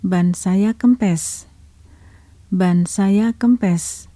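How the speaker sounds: very slow, word by word; slow pronunciation. Shown as a demonstration. Teacher voicing Harry, very slow and careful for learners. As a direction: spell it out slowly for learners to follow. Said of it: "je vais prononcer lentement".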